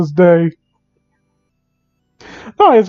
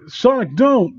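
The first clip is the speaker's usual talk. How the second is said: scared shout; 5 semitones higher, slower than usual. Acted. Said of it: "You shout, scooting away".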